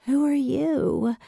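high, slow, drowsy voice; a roused sleeper demanding who's there; sleepy demand. A narrator's reading. Girl woken in the dark, sleepy and demanding. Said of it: "demanded a sleepy voice".

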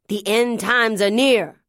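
angry preacher shout. Acted. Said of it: "shouted angry things at passers-by".

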